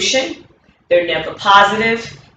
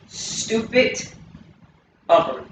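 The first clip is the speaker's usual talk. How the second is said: hissed whisper of stupid; whispered label; 3 semitones higher, 5 dB quieter, slower than usual. Shown as a demonstration. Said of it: "So stupid".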